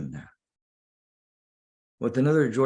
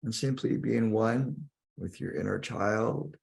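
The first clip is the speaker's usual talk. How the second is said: guided meditation. Acted. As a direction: guide the listener inward, lingering on key words.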